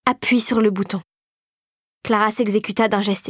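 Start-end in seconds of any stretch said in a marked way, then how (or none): 0.1-1.0 understated menacing command; insistent, menacing. A narrator's reading. Regent orders the reluctant girl, insistent and menacing. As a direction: give the order evenly, without coaxing. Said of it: "au regard soudain assassin".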